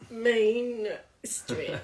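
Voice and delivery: MAIN stretched out slowly, then street; teacher slowly modelling "main, street"; drawn-out pronunciation demo. Shown as a demonstration. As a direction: draw out the vowel and N of "main" slowly. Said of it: "you do this".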